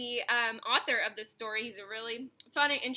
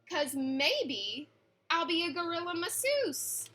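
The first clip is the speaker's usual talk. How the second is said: put-on lively read-aloud for children, rhyming bounce; story narration. A narrator's reading. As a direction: read it like a bedtime picture book. Reads picture book aloud.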